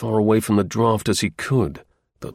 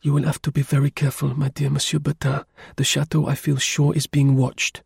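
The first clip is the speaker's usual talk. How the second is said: lightly raised woman's voice; countess's voice; 3 semitones higher than usual. A narrator's reading. Countess warning her helper of danger, in a woman's voice. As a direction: caution him in a lady's higher register. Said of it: "Madame said something about Gentilly".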